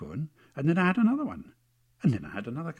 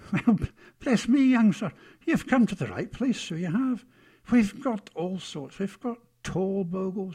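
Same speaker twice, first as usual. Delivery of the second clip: high-pitched, cheery rustic-grammar character; happy Bogle seller Fred; 6 semitones higher, 3 dB louder than usual. Acted. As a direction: welcome a young customer in a high character voice.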